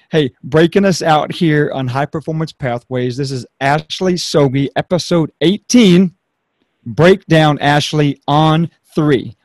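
punchy show sign-off cue; energetic announcer. Real, not acted. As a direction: bring energy, landing each phrase firmly. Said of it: "it's just bringing some energy".

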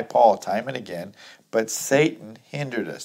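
firm, projected Bible reading; scripture reading. Acted. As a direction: read the verse out to the congregation. Reads scripture aloud to congregation.

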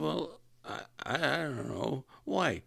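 mimicked harelip speech, hesitant; copying her impediment. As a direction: answer sheepishly in the borrowed voice. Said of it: "talking like me for".

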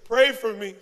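loud plea in the rhythm of a groan; mock pained plea. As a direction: turn each yelp into a spaced-out cry for prayer. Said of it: "what we really hear is".

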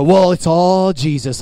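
slow, drawn-out mock modesty; false humility. Preacher mimicking people deflecting compliments, falsely humble. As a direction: stretch out ALL with put-on piety. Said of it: "false humility is they go".

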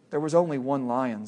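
quiet, steady lion voice; a touch of calm authority; large voice. Acted. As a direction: Aslan correcting the boy, quietly firm. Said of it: "said the voice".

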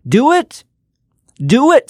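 high excited push. Real, not acted. Motivational host urging listeners to act, excited high cry. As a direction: pitch jumps way up on "Do it".

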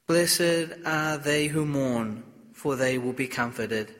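solemn liturgical reading voice; Gospel reading. Acted.

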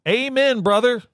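hammed-up wrestler growl; wrestler catchphrase. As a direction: pro wrestler promo voice. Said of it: "What wrestler says that?".

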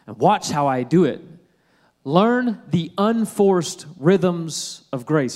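slow, emphatic reading of scripture. Acted. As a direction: read it out like a promise to a weary crowd. Reads scripture aloud.

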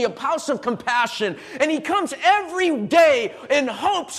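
driving, emphatic sermon delivery; impassioned preaching. Real, not acted. Preacher to congregation about a man sick thirty-eight years, impassioned preaching. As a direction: preach it with rising urgency to the room.

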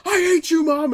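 put-on a teen screaming at her mother; bratty yell. Ballsy friend yelling at her mom in front of guests, mock yell. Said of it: "they're like".

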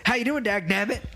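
perky mimicked greeting; coworker's catchphrase voice. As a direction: imitate a man with a folksy catchphrase. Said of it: "And that's how he talks".

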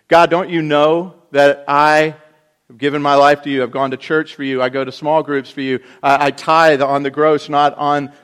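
mock self-righteous tirade; self-righteous rant. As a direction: argue your case with God. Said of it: "Maybe we jump to our own righteousness".

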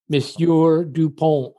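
slow, formal French "Monsieur Dupont"; formal French address. Retold or imitated. Shopkeeper greeting an old customer, slow and formal. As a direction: address him stiffly, French style. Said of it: "they call very formally".

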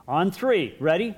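put-on a kid counting off for God; Calvin to heaven. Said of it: "looks up toward heaven and says".

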